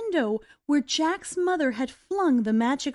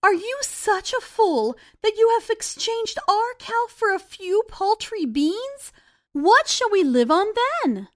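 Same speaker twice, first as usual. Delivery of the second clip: higher, lightly voiced upset mother; scolding mother; 5 semitones higher than usual. Mother scolds Jack for trading the cow, mild upset.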